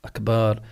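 أكبر pronounced akbaar; wrong long vowel. Shown as a demonstration. Teacher repeats the invalid word, stretched akbaar. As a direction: lengthen the "ba" of أكبر. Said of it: "هذا لا يصح".

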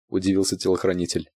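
ordinary delivery, nothing marked

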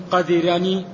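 "قدرني" said qadhirani, short i after the second consonant; kasra on the dal. Shown as a demonstration. Reader explaining the word's vowels, kasra on the dal. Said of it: "بكسر الدال".

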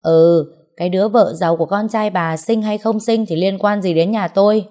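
loud angry outburst; losing his temper. Acted. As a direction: snap at the neighbour, voice rising. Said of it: "chồng có vẻ mất bình tĩnh".

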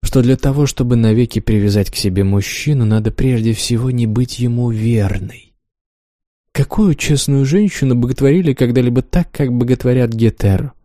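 a lightly voiced teasing lover; Wanda voiced. Wanda's lines in reading.

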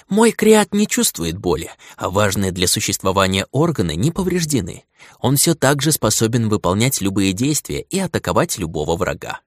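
servile creature voice. Acted. Creature reports to master.

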